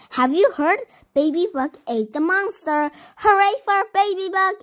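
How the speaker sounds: high, loud, fast cheering; excited cheer for the hero; joyful cheer. A narrator's reading. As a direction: shout the hooray like a crowd of happy critters. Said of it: "everyone cried".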